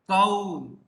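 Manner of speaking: KAU as one drawn-out gliding syllable, "कौ"; pronunciation demo. Shown as a demonstration. Teacher showing students how "कौ" sounds, demonstrative. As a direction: say "कौ" alone, stretched out clearly. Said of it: "ऐसे उच्चारण हो जाएगा".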